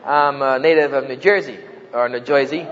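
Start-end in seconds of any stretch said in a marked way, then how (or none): 1.1-1.6 New Jersey accent. Shown as a demonstration. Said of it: "as you notice from my accent". 2.1-2.7 New Jersey accent. Shown as a demonstration. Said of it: "as you notice from my accent".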